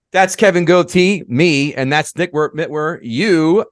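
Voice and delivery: stumbling over the names in the sign-off; tongue-tied. Real, not acted. Host fumbling the sign-off introduction, tongue-tied. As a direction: trip over the co-host's name mid-intro. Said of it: "I'm getting a little tongue-tied here".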